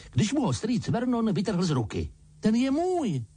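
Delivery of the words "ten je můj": put-on high boyish protest. A narrator's reading. Harry protests to uncle over his letter, high. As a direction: claim it back, stung. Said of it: "Bránil se".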